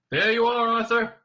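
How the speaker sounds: loud, high, case-proven call; Ford, triumphantly concluding. A narrator's reading. Prisoner concluding his argument to his friend, triumphant. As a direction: announce it as if resting your case. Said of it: "with the air of someone reaching the conclusion of his argument".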